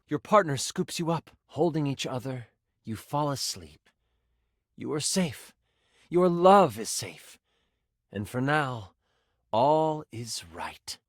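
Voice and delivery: lowering narration with long pauses; soothing story ending. Acted. Game master tells player their love is safe, calm narration. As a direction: settle gently into the safe ending.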